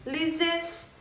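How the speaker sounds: "análises" with a strong, drawn-out NA; stressed syllable. Shown as a demonstration. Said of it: "eu pronuncio com mais intensidade".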